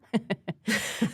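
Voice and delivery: accidental villain chuckle; a laugh that comes out sinister. Real, not acted. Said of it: "that was a sinister laugh".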